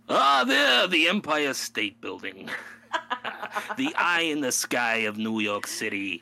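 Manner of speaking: loud hammed-up New York tour guide, laughing through it; a grand mock New Yorker pointing out sights; hammed-up New York accent. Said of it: "New York voice, I'd be like".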